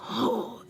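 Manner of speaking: soft, airy sharp gasp; retold gasp. Teller showing how she felt in that moment, breathy gasp. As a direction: show the feeling with a breath instead of a word. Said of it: "I felt so, like".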